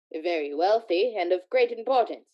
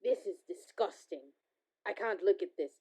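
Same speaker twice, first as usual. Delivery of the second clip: quiet disgust; 6 dB quieter than usual. Acted. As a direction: turn away from it in distaste. Scrooge recoils from stolen goods.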